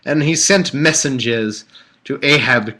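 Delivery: put-on stately, amateur British accent. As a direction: read it out in mock British. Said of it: "So it should be British".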